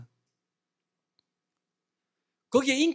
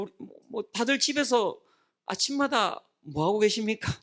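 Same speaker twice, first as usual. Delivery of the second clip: ordinary delivery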